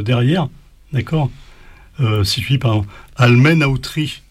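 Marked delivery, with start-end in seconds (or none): 3.2-4.2 "almenautri" stressed on MEN, tri attached as one word. Shown as a demonstration. Teacher showing the added-syllable trick, stress on MEN. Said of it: "l'accent tonique sur mais".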